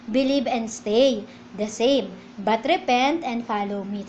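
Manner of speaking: slow, deliberate quoting of the verse; slow scripture reading. Shown as a demonstration. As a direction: read it slowly, word by word. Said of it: "Tandaan niyo po". (mabagal na pagbasa ng talata)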